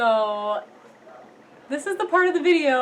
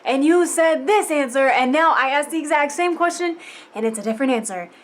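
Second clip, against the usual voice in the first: retold exasperated outburst; 4 semitones higher, 4 dB louder than usual. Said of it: "And I'm just like".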